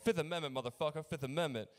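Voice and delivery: shouted defiance at the cop; loud mock defiant shout; defiant yell. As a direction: yell it back like a cornered drunk. Drunk suspect yelling at cops.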